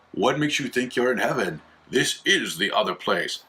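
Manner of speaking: lightly acted villain delivering the twist; mock-ominous reveal; sinister guide reveal. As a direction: play the gloating guide, slightly hammed. Voices the sinister guide's final reveal.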